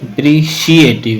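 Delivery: अप्रिशिएटिव with C said as "shee"; "शी" sound in अप्रिशिएटिव. Shown as a demonstration. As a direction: say अप्रिशिएटिव with a clear "शी". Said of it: "शी की आवाज़ देता है". (अप्रिशिएटिव में "शी" की आवाज़)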